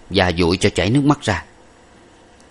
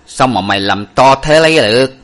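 stern scolding; 5 semitones higher, 6 dB louder than usual. Acted. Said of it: "trợn mắt nói rằng".

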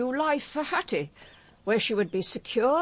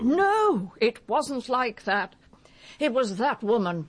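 desperate denial. Acted. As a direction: cut him off, pleading. Mother denies her son planned it.

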